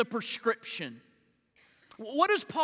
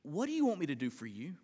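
gentle question; 6 semitones lower, 7 dB quieter, much faster than usual. Acted. Jesus gently addresses the blind man.

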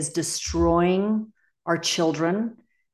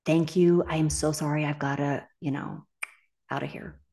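soft apology that fades away; polite tender excuse, drifting to a murmur; gentle apology; 3 dB quieter than usual. Shown as a demonstration. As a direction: ease out of the conversation tenderly, trailing off. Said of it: "just gently, tenderly say".

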